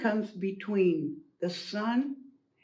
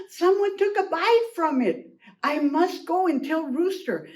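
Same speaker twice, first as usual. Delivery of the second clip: alarmed; 4 semitones higher, 3 dB louder than usual. Acted. Hen alarmed, resolves to tell.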